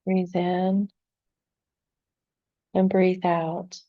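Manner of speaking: calm meditation guide with long, restful pauses; unhurried, soothing guidance, leaving room to breathe; guided meditation. Acted. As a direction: ease them gently into relaxation, phrase by phrase.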